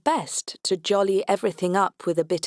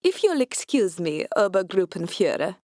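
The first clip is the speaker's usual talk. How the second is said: put-on Austrian accent. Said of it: "putting on my best Austrian accent".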